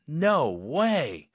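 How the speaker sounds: drawn-out, thrilled "no way"; excited amazement. Shown as a demonstration. Teacher delighted for Ellie's acceptance, excited. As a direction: express the thrill just as you feel it. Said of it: "느낌 그대로 표현하시면 돼요".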